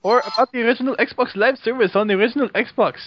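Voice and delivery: lightly put-on Arab accent; jokey Arab-accented delivery; mock Arab accent. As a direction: read it out in a fake Arab accent. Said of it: "can do with my Arab talk".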